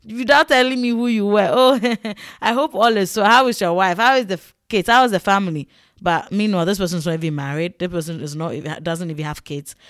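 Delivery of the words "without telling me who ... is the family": fake fawning. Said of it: "the pretending of it all".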